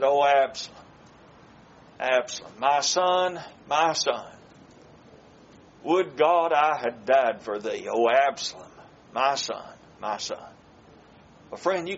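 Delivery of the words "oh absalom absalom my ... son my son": grieving lament. Retold or imitated. King David mourns slain son Absalom, sorrowful lament.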